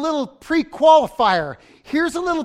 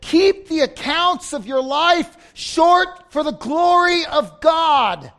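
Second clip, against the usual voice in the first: declaimed scripture; 5 semitones higher, 5 dB louder, slower than usual. Real, not acted. Preacher declaims scripture, slow and loud.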